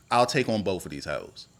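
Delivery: low-pitched acted challenge; said just so. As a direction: deliver the challenge low, as a scripted line. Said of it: "she gotta say it like that".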